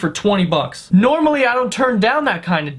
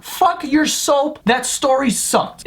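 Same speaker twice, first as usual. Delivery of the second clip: higher, slow dismissive squeal; mock heckler; 5 semitones higher, slower than usual. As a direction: sneer at the boring story. His mocking reaction.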